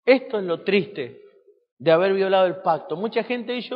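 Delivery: usual speaking voice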